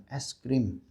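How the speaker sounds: "es krim" said clearly with every consonant; careful model of "es krim"; correct pronunciation. Shown as a demonstration. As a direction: pronounce "es krim" in full, with s and kr. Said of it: "dengan cara yang benar".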